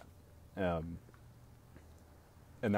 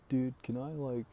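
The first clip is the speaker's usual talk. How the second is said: higher, eager friend asking; friend's eager ask; 6 semitones higher than usual. Retold or imitated. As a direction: ask like a keen buddy. Friend asking to come over.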